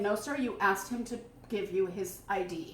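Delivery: low, soft, composed reply; retold calm. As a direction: imitate her politely correcting the officer. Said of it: "she was so calm".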